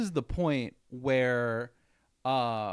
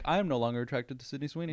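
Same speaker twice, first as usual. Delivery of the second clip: fast, mock solemn vow; mock declaration; much faster than usual. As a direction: rattle it off like a vow. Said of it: "I'm like".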